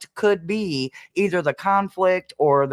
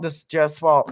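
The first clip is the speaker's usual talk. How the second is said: laughing. Pretend. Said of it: "I am full of piss and vinegar".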